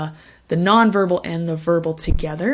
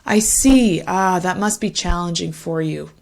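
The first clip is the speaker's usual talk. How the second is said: empathetic response. Shown as a demonstration. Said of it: "make one of these longer".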